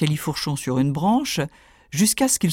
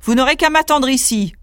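higher, bold order to the riders; lightly voiced confident tailor; commanding tailor; 4 semitones higher, 3 dB louder than usual. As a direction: wave the escort off proudly. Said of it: "il se retourna et leur dit".

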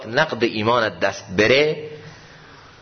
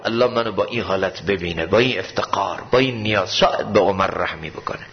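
lower, hushed, humble plea; dying Umar; 5 semitones lower than usual. Retold or imitated. Dying Umar asks his son to lay his head down, low and humble. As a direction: speak low like a dying man begging mercy.

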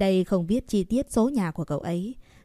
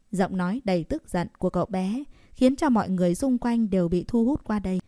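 plain reading voice

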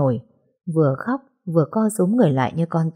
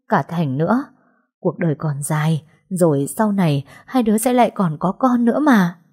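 consoling aunt. Acted. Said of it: "lời động viên".

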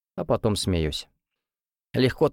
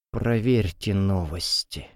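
put-on slow, creaky old-man voice; tragic creak; 2 semitones lower, slower than usual. A narrator's reading. Grandfather croaks tragically to his family. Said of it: "трагично скрипит он".

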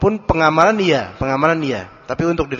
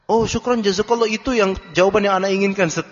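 pleased questioner; 4 semitones higher than usual. Retold or imitated. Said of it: "Beneran ngomongnya kayak gitu".

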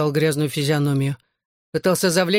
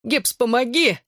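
pleading; 7 semitones higher than usual. A narrator's reading. Bully begs friend for help.

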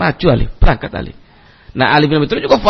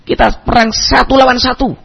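retold shout; 6 semitones higher than usual. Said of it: "Ali teriak".

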